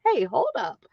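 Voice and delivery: mild sassy clapback; mock indignant. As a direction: call them out with sass. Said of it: "And I was like".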